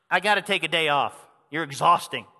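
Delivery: sigh, then a hammed-up tired grumble; mock weary sigh. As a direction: play a God who's fed up with Fry, half-joking. Mock God sighing, wants day off.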